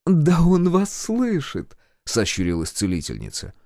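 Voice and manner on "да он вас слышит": slow, very high, pleased voice; sly healer. A narrator's reading. Healer tells the official the major hears, sly. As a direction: stretch it out knowingly, pitched up. Healer slyly reassures furious caller.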